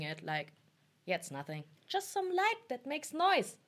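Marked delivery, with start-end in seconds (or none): 1.9-3.6 mock dismissive. Sarcastic self-dismissal.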